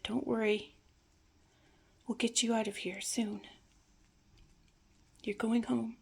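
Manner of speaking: understated retold comforting, with pauses; mild, calming promise; gentle reassurance. Granddaughter soothing her distressed grandfather.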